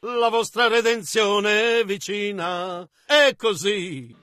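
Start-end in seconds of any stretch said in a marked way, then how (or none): 0.0-2.9 put-on measured, sustained chanting of old hymn verses; hymn recitation. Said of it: "Come disse il vecchio cantico". (recitazione cadenzata di un cantico)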